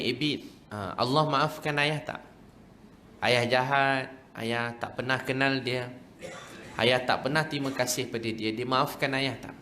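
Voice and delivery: slow, subdued imitation of a remorseful father; retold tearful remorse. Weeping father asks if Allah forgives him, subdued remorse. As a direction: plead slowly, mildly tearful. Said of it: "dia nangis".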